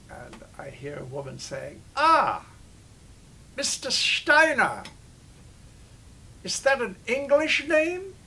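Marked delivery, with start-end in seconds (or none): 2.0-8.1 put-on high, slow woman's voice in a heavy German accent; a hotel receptionist greets the guest, in a heavy German accent. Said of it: "heavy German accent".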